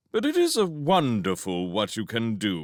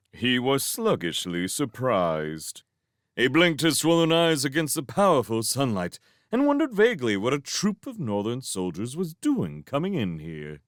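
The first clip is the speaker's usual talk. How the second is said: usual speaking voice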